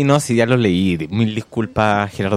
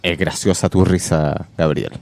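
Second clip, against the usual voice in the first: sensual voice; 5 semitones lower, slower than usual. Acted. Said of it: "¿Y por qué me lo dices con voz sensual?".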